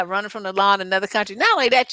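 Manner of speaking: ordinary talk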